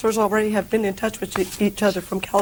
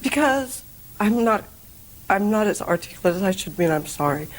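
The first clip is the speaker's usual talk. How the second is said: tearful. Real, not acted. Litigant struggling to explain herself to the judge, tearful. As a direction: apologize through tears, haltingly. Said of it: "What are you crying about".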